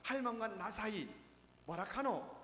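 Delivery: loud Gyeongsang-dialect call to grandma; grandpa's loud call. Retold or imitated. Old man loudly asks his wife on a game show, loud call. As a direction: call it out loudly, grandpa teasing a quiz answer. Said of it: "큰 소리로".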